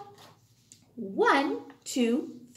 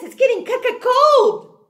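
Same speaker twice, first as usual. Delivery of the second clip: shivering stutter; 11 semitones higher, 6 dB louder than usual. Pretend.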